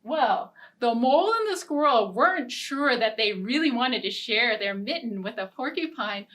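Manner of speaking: lively, sing-song storybook narration; animated read-aloud for little listeners; children's story reading. A narrator's reading. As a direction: read it like a picture book to kids.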